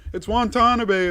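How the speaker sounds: high, loud, slow correcting voice; mocking viewers. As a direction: mimic a fussy viewer correcting him. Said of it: "And they're like".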